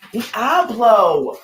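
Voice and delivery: sharp call to the dog; scolding call at the dog. Real, not acted. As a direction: call out the dog's name to stop him.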